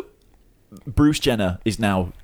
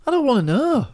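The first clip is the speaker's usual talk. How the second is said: squeal. Real, not acted. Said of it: "Come on, Rob".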